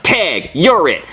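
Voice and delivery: slow, flat deadpan tag. Retold or imitated. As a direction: hand it back dry. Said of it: "I'm like".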